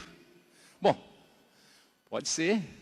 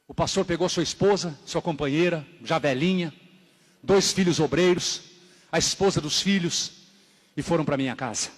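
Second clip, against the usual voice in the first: normal talking voice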